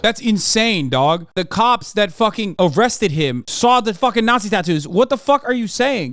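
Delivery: high, indignant outburst at a claim; incredulous exasperation. Real, not acted. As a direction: argue back in exasperated disbelief. Arguing back at the played clip.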